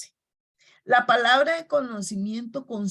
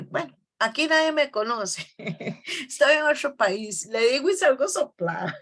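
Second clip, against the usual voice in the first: higher, with a chuckle on the last words; laughing while retelling; 4 semitones higher than usual. Retold or imitated. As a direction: laughs at her own boldness. Laughing at her own nerve.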